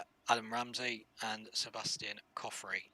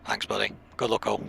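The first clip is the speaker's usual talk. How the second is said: calling out; 8 dB louder, faster than usual. Real, not acted. Calling out to other drivers.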